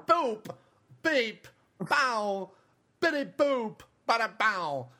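high chirpy droid beeps. Acted. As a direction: answer back in beeps. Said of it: "Christopher Walken is R two D two".

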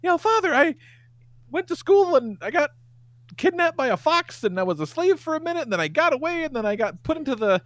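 put-on high childlike voice; kid Pinocchio voice. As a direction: play the boy high and sweet. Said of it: "And he's like".

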